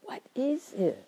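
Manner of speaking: open, wondering question; genuine question. Shown as a demonstration. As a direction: ask it with true curiosity. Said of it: "So it's really a question".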